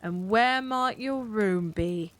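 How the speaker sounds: slow, slightly sarcastic policeman; mock-polite sarcasm. A narrator's reading. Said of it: "slightly sarcastic tone".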